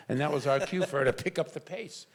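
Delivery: ordinary talk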